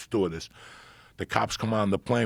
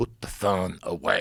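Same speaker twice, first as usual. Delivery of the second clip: put-on German-accented speech; 2 semitones lower than usual. Retelling what a german man told you, in a german accent. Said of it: "They had a German accent".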